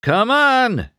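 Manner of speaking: high, loud push to move; urging. A narrator's reading. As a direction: hurry him along. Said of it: "Harv urged".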